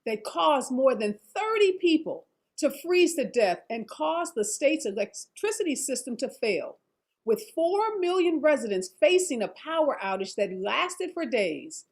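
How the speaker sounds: measured anchor teaser read; news read. Acted. Anchor reads scripted intro.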